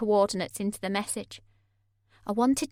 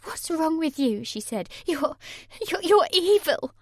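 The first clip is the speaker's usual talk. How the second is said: rising higher and louder, stammering; outraged Sammy; 7 semitones higher, 3 dB louder than usual. A narrator's reading. Sammy turning on Mark, climbing into an outraged cry. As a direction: build to a shout on evil.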